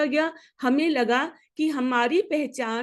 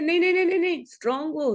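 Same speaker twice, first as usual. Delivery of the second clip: quick higher-pitched brushing-off, lightly acted; lightly voiced parent; 5 semitones higher, much faster than usual. Parent to a hurt, crying child, lightly dismissive. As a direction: mildly imitate a parent dismissing tears.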